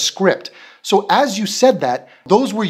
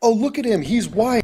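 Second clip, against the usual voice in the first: snide attitude; 4 semitones higher than usual. Retold or imitated. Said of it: "do you hear that little attitude on her".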